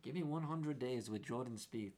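put-on a light South African accent; lightly voiced South African golfer. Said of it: "That's my South African accent".

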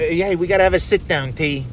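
lightly voiced TV mob guy; a hint of a wiseguy calling a meeting; mobster. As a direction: play it a little like a Sopranos heavy. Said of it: "Tony and Paulie and Silvio and Christopher".

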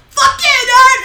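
high, loud hammed-up yell; acting out Bakugo yelling at his rival, hammed up; mock Bakugo yell. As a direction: bark it like a hotheaded rival. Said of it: "Bakugo would be like".

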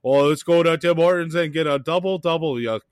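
lightly mocking Canadian accent; a hint of Yogi Bear in a Canadian accent; Louis. Friend making fun of a Tim Hortons lover, light mock Canadian accent. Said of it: "the Duke was trying to do a Canadian".

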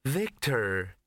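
sweetly drawn-out name. A narrator's reading. Entranced woman addressing Victor, sweetly. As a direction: greet him sweetly, as if entranced. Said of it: "she said sweetly".

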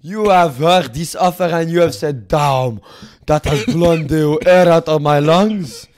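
lightly put-on French accent, haughty; a smug French dealmaker, mock accent. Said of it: "Fuck this French accent".

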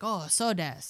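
Japanese intonation of polite agreement. Shown as a demonstration. Showing Japanese agreement, lilting Japanese intonation. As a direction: agree with a swooping Japanese lilt. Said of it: "you know, like, you're agreeing".

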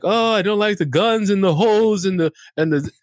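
put-on Brooklyn Jewish accent. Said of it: "making him sound like a Brooklyn Jew".

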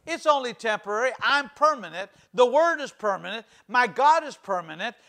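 firm, ringing confession; declaration for the church. Shown as a demonstration. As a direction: proclaim it with faith. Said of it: "So say this".

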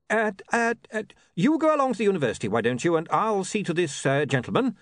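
stammering and rushed, struggling for words; barely keeping composure; flustered. A narrator's reading. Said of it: "when he felt he could speak again".

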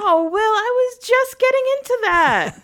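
high-pitched mock complaint; playful protest.

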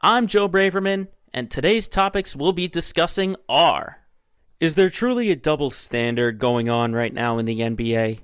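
upbeat sports show host; bright, lively announcer intro. Acted.

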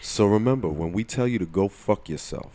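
put-on Jersey accent. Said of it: "I said that in my Jersey accent too".

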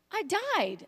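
put-on high-pitched kid's complaint; mock-wounded little girl; imitated young daughter. Voices her daughter's indignant reply.

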